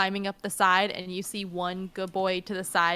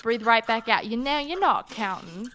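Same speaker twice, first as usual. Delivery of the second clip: put-on lightly accented mermaid singer giving instruction; bossy vocal-coach advice in a mixed accent; mermaid character; 2 semitones higher, 3 dB louder than usual. Mermaid coaching a panicking stranger to breathe, lightly in character.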